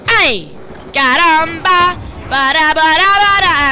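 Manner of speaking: high, loud silly shouting; hammed-up cartoonish cry; playful exclamation.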